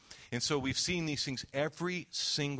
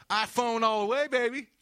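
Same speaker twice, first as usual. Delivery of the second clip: loud, high whooping answer; acting out an excited shout; hammed-up enthusiasm; 12 semitones higher, 10 dB louder than usual. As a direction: crow it proudly like a die-hard fan. Stranger's hearty retold answer.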